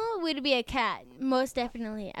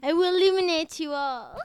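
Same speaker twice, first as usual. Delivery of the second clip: put-on English witch accent; 3 semitones higher, 5 dB louder than usual. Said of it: "in an English accent".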